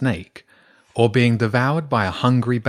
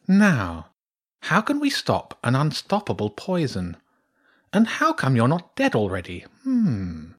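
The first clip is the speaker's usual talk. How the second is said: lightly voiced, musing badger; pondering badger priestess; 4 semitones higher than usual. Badger priestess puzzling over an unstoppable poison, pondering. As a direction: puzzle aloud, ending on a hum.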